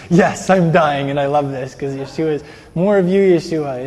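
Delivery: voicing a believer's joyful surrender, laughing; laughing through it. A believer tells Yeshua the pain is good, laughing.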